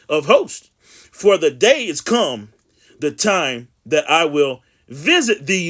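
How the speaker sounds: slow, emphatic scripture reading. Acted. Preacher reading Jeremiah to his viewers, slow and emphatic. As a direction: proclaim the verse with long drawn-out words.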